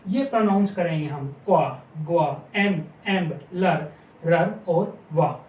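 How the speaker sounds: क्वा, ग्वा, एम, एम्ब, लर each said as one clipped syllable; listing the blends. Shown as a demonstration. Teacher reciting the pronunciations for the class. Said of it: "उनको pronounce क्या करेंगे?".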